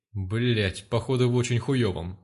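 usual speaking voice

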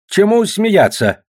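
sharp, high, slow rebuke; displeased. A narrator's reading. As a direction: scold him for grinning. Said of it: "недовольно сказал Силин".

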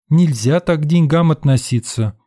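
indignant. A narrator's reading. Educated woman scolding the narrator, indignant. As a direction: lecture with indignation. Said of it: "возмутилась интеллигентка".

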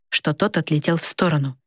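plain reading voice

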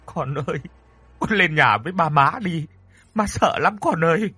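whimpering. Acted. Frightened mother asking her son to come upstairs, whimpering. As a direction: plead on the edge of tears. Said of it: "Bà hai thì mếu máo".

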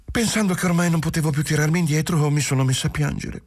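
put-on Giulia, young wife, anxious. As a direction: pour it out, half tearful, half relieved. Giulia explains her change. (giovane moglie che confessa, voce alta e agitata)

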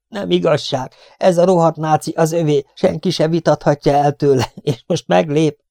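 high-pitched indignant outburst; high, frustrated grumbling at being cheated; indignant protest. A narrator's reading. Luke indignant as enemy escapes.

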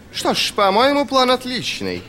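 high-pitched, genial approval; good-natured. A narrator's reading. General praises the plan, grinning at his rival, good-natured. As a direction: endorse it with hearty good humour. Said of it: "добродушно заявил Полдер".

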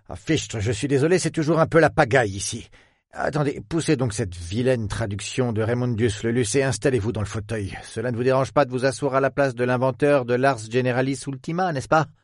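lightly voiced old professor, brisk in parts; a lightly voiced old academic, fussing about his mess; fussy old scholar. Old professor apologises to visitor, lightly voiced.

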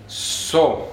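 SO with a long, voiceless hissed s; pronunciation demo. Shown as a demonstration. Teacher shows Esperanto learners the letter, drawn-out so. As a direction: draw out the plain s of SO. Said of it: "La so se distingue de la S".

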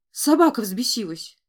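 loud warning yell; alarmed shout. A narrator's reading. Stable worker warns everyone of the rabid dog, shouting. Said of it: "закричал выбежавший из конюшни мужчина".

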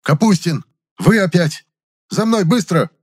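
high, loud furious yell. A narrator's reading. The boss catches Kapustin again, yelling. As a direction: bark the orders in a rage. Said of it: "он завопил".

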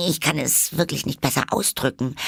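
high, quick, courteous voice; very polite Alice. A narrator's reading. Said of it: "erwiderte Alice sehr höflich". (sehr höflich, mit hoher Stimme)

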